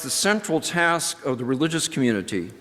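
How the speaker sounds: a touch of formal reading voice. Acted. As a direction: read it like scripture to the congregation. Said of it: "And he writes".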